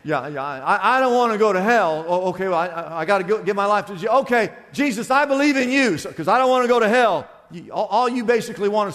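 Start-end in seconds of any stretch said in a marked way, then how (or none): 0.0-7.3 mock someone hastily signing up to dodge hell; fire insurance believer. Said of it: "you want fire insurance".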